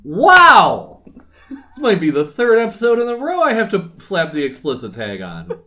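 loud, high mock outrage, playing at being offended; hammed-up indignant outburst; mock anger. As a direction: pretend to be scandalized by a rude pun. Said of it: "I'm being angry at you".

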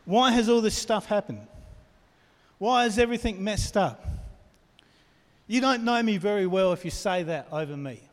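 mock indignant outburst; exasperated complaint. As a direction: vent it like you're fed up. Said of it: "You've had that sort of reaction".

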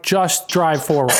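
slow, emphatic order, word by word; mock an impatient nurse losing patience; irritated. Nurse telling a stalling driver to move on, irritated. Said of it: "she just pissed at me".

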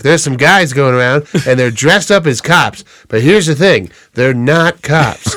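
lightly voiced comedian on the phone; a hint of a deadpan prank caller; Norm Macdonald. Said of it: "they call the frat and he's like".

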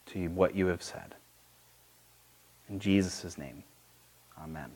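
hushed, measured prayer with long pauses. Real, not acted. Opens with a prayer.

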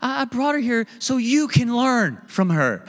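a lightly voiced God setting him straight; voicing God. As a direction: gently overrule him from above. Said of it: "And then God's like".

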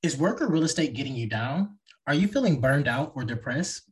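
smooth podcast ad read. Acted. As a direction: read it like a sponsor spot. Host reads sponsor ad and outro.

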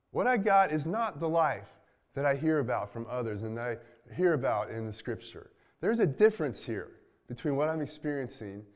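half-acted exasperation building up, then dropping off; frustrated rant. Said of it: "is what a friend of mine, mine says".

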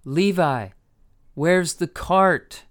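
loud, slow shout. A narrator's reading. Rebecca shouting to Levi outside, loud slow shout. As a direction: call the question out slowly. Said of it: "She shouted".

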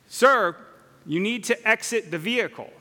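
a mild imitation of an officer on a megaphone; police loudspeaker. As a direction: call it out through the squad car speaker. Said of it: "we hear on the speaker from the police car".

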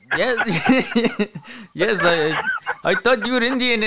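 laughing through the words; the manager admits he thought he was Indian, laughing. Retold or imitated. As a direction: quote him while cracking up. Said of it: "And he was like".

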